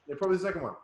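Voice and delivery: repeating the answer through a laugh; laughing echo. Real, not acted. Coach echoing the student's answer, laughing.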